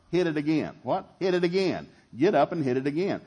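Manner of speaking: rising exhortation. Acted. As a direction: push them to get back up. Preacher's building call to the crowd.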